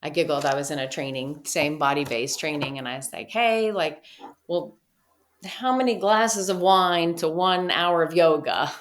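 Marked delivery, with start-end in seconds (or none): 3.3-8.7 sassy question. Retold or imitated. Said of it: "just being sassy".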